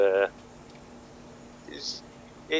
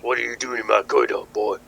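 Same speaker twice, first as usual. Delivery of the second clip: louder, quicker surfer dude challenge; surfer dude boss; 6 dB louder than usual. Acted. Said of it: "surfer dude comes to the door".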